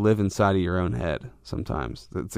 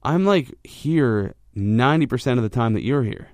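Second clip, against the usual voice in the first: irritated retort. Retold or imitated. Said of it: "immediately sparked irritation".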